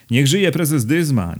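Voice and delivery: high, drawn-out cheer from the back rows; cheering shout. A narrator's reading. Someone in the back rows hails the bridegroom, cheering shout. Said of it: "ktoś krzyknął".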